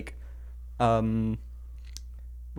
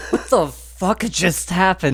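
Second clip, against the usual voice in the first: laughing disbelief; 5 semitones higher, slower than usual. Real, not acted.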